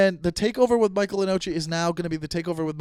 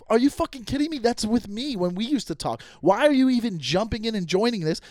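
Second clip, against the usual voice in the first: higher-pitched incredulous outburst; indignant retort; 4 semitones higher than usual. Retold or imitated. Confronting the girl who shared the texts, indignant. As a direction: demand an explanation, indignant.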